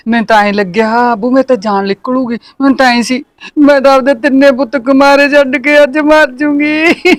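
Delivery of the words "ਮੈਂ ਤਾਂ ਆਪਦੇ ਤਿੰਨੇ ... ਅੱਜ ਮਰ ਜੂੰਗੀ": hammed-up weepy lament, rising on ਮਰ; tearful wail. Mother-in-law wailing to daughter-in-law, hammed-up tearful. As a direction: melodramatic mock crying about dying today. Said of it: "ਰੋ ਨਾ".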